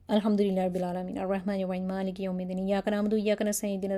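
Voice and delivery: flat, hurried Fatiha with no feeling; bored rote reading; careless recitation. Shown as a demonstration. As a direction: recite it like you don't mean it. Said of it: "ایسے پڑھیں گے".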